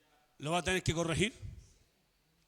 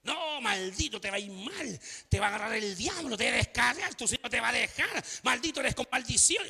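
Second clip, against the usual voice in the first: mock cursing pastor. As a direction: mimic a pastor laying a curse on a member. Acts out pastor cursing departing member.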